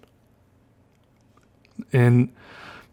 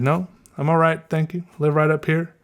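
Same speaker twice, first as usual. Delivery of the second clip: put-on southern accent; 5 semitones higher than usual. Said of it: "mine started getting so thick".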